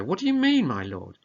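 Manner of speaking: sudden high shocked outcry; father stunned by the accusation. Acted. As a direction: cry it out in disbelief. Leonato shocked at wedding.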